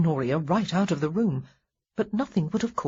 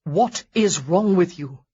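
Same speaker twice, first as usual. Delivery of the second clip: slow, louder, stress on is; blunt demand; 5 dB louder than usual. Acted. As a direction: demand it heavily and slowly. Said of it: "absolutely ill-advised".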